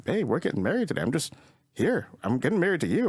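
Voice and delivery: high-pitched imitation of a pleading groom; mock protesting groom. Groom protesting to angry bride.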